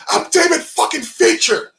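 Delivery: imagined director asserting his status, mock yell; mock ego shout. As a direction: bellow your own name like a big ego.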